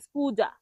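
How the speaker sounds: স্কুজা ending in "ja"; learner's slip স্কুজা, voiced consonant; common mispronunciation. Shown as a demonstration. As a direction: say স্কুজা as "skuja", j for s. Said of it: "স্কুসাকে বলে".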